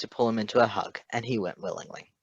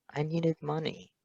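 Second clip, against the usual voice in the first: simply; 6 semitones higher, 4 dB quieter than usual. Acted. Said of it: "he answered simply".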